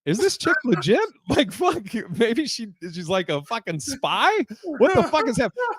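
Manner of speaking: high-pitched mock bewilderment; baffled inner voice. Man replaying his thoughts about his date, baffled. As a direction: act out a brain racing through wild theories. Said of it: "my brain is like".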